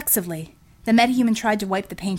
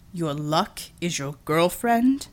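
Matai's wry voice; 3 semitones lower, slower than usual. Acted. Matai teasing, injured.

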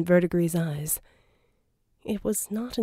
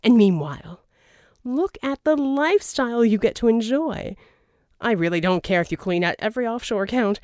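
louder, smooth persuasive schemer; a charming villain's pitch, louder; Verdigris voiced; 3 semitones higher, 5 dB louder than usual. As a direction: sell the deal, oily and grand. Verdigris tempting Jack.

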